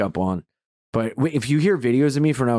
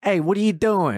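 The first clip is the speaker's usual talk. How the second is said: higher-pitched, broad Delaware; Delaware accent; 6 semitones higher than usual. Shown as a demonstration. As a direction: overdo the Delaware vowels. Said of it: "Ours would be like".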